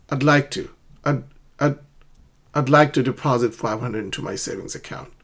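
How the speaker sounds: "I'd" linked smoothly into "like to"; linked contraction. Shown as a demonstration. Teacher modelling for learners, "I'd" contracted. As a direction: keep "I'd" to one short syllable. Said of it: "So try to pronounce it".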